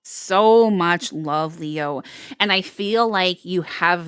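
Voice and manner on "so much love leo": slow, drawn-out tender. Real, not acted. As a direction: stretch it out lovingly.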